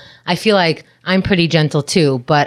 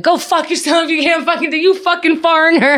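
high, put-on voice yelling insults; high put-on mock yelling; mock shouting match; 13 semitones higher than usual. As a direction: replay dad and cop trading curses.

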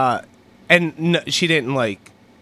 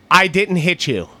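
insistent fake denial, a touch raised; mock loud protest; 2 semitones higher than usual. Embarrassing a girlfriend on a crowded street, mock loud protest. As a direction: protest your innocence for passers-by to hear. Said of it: "say that louder and louder".

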